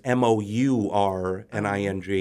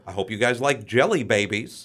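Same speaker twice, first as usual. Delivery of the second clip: lightly put-on British accent. Quoting the British version of the script, light British accent. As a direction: quote it with a hint of British. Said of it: "for the British version".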